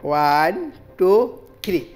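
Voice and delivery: put-on kids party magician. Magician chanting magic words.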